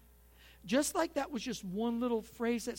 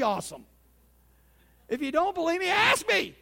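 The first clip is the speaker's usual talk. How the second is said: higher and louder cocky bragging, building to a shout; hammed-up show-off building to a big crow; mock boastful brag; 5 semitones higher, 4 dB louder than usual. Preacher parodying a smug churchgoer's bragging, high, loud and cocky. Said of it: "you sort of get the idea".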